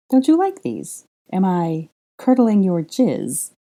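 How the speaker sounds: a hammed-up high woman's voice, slowing down; mock-offended Granger. A narrator's reading. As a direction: squeak it up high then drag the second line. Granger mocking her pajamas.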